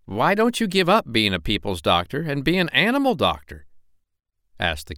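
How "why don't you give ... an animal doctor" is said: chatty tradesman's voice, a bit higher; cat's meat man. Acted. Cat's meat man urging the doctor, lightly voiced eager hawker.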